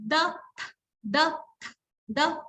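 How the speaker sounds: "the" voiced, tongue out; voiced th sound. Shown as a demonstration. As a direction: repeat "the" with voiced th. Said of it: "a loud voice sound".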